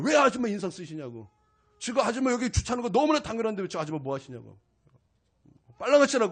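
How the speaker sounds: retold rant at the parking lady, climbing to a shout; retold angry scolding. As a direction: fire off the rant, build to the last order. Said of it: "분노를 쏟아 부었어요".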